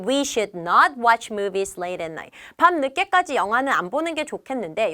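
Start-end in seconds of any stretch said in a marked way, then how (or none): 0.1-2.4 You should save money spoken very slowly, word by word; slow teacher read-aloud; slow model sentence. Shown as a demonstration. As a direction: read it slowly for learners to copy. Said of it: "그래서".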